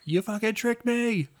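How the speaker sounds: high, slow hushed yell; stage whisper. Retold or imitated. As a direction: hold back a shout to a whisper. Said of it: "do a whisper yell".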